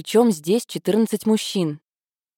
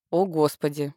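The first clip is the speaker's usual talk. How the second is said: hammy stage actor; 2 semitones lower, 3 dB quieter than usual. A narrator's reading. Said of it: "театрально воскликнула".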